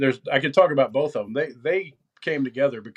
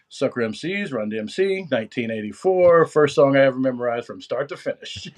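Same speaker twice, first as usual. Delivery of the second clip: lightly voiced mock announcer; a hint of jokey announcer delivery; funny announcer. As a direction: announce it like a song intro, half-playful. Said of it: "funny announcer voice".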